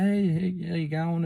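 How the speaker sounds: high, sing-out hello in imitation; imitated high-pitched greeting; retold hearty greeting. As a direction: greet the whole shop, pitched right up. Retold greeting of Jim arriving.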